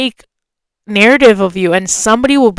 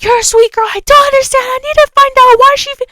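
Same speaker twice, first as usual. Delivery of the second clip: mimicking a sweet-talking girl, pitched way up; high girly voice; faster than usual. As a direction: put on a high, sugary girl voice.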